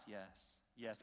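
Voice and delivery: small, restrained pious yes; mock pious. Preacher imitating the outward churchgoer, mock pious. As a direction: put on an outward show of piety. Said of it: "Outside, it's always pious".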